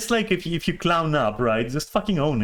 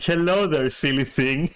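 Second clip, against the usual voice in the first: teasing greeting. Retold or imitated. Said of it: "To which I respond in public".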